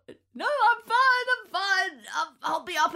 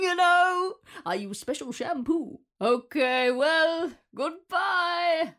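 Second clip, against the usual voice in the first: booming Santa farewell; 4 semitones higher, 4 dB louder, slower than usual. Acted. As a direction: send the kid off as Santa. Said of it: "did an award-winning performance being Santa".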